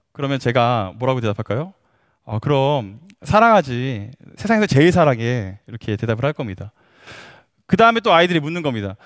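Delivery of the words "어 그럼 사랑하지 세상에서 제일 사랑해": put-on lower, slow and tender, like soothing a toddler; tender dad reply. Father reassuring his toddler of his love, slow and tender. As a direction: gently promise your little one you love them most.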